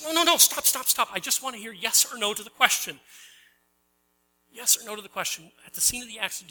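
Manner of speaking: impatient lawyer cutting him off; exasperated lawyer. Retold or imitated. Preacher voicing an irritated lawyer stopping the witness.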